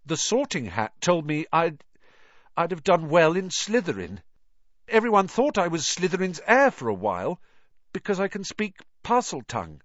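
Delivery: put-on a worried boy confessing his fear; anxious young boy. Harry pleading with Dumbledore.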